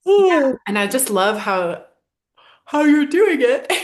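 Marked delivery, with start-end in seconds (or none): 2.6-3.8 laughing through the words; giggling mid-sentence. Real, not acted. Laughing at her yawning.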